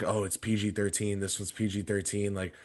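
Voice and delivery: hushed worried parent aside; soft, secretive warning; a hint of whispering parents. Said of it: "whispering before it started".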